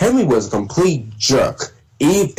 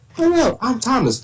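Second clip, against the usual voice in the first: cartoon voice pitched well up, very high; 11 semitones higher than usual. Speaker demonstrating how they voice the little engines, doing Thomas a little high. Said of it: "little bit of a high voice".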